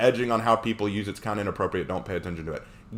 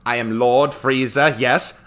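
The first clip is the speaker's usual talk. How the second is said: slow, lightly voiced villain; Frieza; 4 dB louder, slower than usual. Villain answering the hero, lightly voiced slow Frieza. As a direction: announce yourself slowly, with a hint of villain. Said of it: "when he shows up to fight Frieza".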